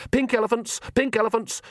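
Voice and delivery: high, insistent chant-like repetition; urgently drown out a thought, high-pitched; urgent distraction. A narrator's reading. Nanny distracting Magrat from a thought, urgent and high.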